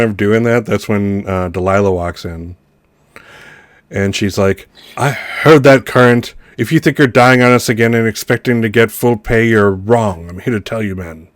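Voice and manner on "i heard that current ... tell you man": scolding boss voice. Acted. Delilah scolds the dying act.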